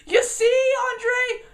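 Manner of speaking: mock-dramatic slow shout; dramatic command. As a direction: boom it out slowly like a hypnotist. Dramatic demo to friend.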